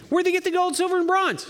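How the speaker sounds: very high-pitched question to the crowd; insistent calling out. Real, not acted. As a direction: pitch it way up, prodding for an answer. Calls question out to congregation.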